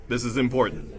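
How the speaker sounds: serious, weighty low-voice demo; important low voice. Shown as a demonstration. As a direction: say it with gravity. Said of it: "in low voice".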